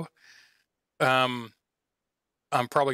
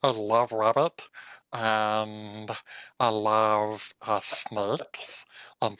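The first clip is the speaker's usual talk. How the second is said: lightly voiced fox, savouring; little fox listing treats, with pauses; fox in clean voice; 3 semitones lower, slower than usual. Fox tells new friend his favourite foods, lightly relishing them. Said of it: "I'm gonna do this in the clean voice".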